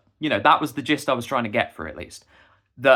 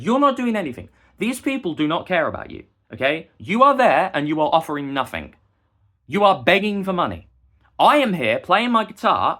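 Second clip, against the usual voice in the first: raised, louder scolding, higher pitched; retold angry telling-off; 4 semitones higher, 5 dB louder than usual. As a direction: tell him off loudly, getting more heated. Retold confrontation with a beggar.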